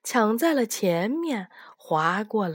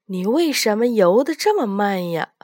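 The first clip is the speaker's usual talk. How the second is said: louder teasing call to the tiger; 5 dB louder than usual. Acted. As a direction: shout it across the water. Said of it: "兔子冲着老虎叫道".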